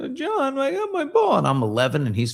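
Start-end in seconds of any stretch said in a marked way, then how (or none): 0.0-1.4 put-on very high, tearful little-kid whimper. Retelling telling his brother John about his ball at eleven, imitating his own crying. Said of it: "he sees me crying in the park".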